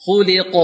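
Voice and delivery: "خلق" with a strong echoing release on q; strong qalqala. Shown as a demonstration. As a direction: bounce the final q of "خلق" firmly. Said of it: "والقلقلة تكون قوية". (نطق "خلق" بقلقلة قوية)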